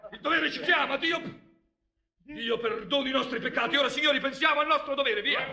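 put-on drunk man straining to be formal; trying to sound sober. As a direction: force some dignity into the slur. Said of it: "Io non sono ubriaco". (cercando di sembrare sobrio)

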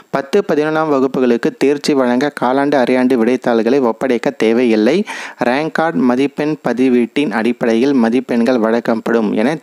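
formal reading of a news report. Acted. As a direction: read the announcement out word for word. Reads the news report aloud. (செய்தியை வாசிக்கும் தொனி)

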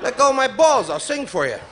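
hammed-up squeaky plea to the doctor; mock testicles' voice. Balls beg the doctor to let go, high and pleading.

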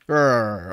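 low mouthed grunt of a game boss; enemy's grunt. Pretend. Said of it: "Oh, that was him".

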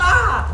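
loud high scream; startled scream. Real, not acted. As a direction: scream out in sudden alarm. Sudden scare during the game. (urlo acuto di spavento)

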